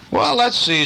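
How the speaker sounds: high, chatty shop lady; shopkeeper. A narrator's reading. Missus Brown helping Truffles choose, high and musing. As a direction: muse it like a kindly grocer. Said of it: "said Missus Brown".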